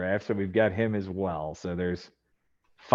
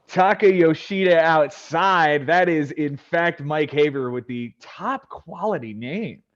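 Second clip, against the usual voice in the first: raised, drawn-out announcer delivery; draft announcer; 6 semitones higher, slower than usual. Acted. Host calling the number one overall pick, announcer style. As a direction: present the first pick like a big event.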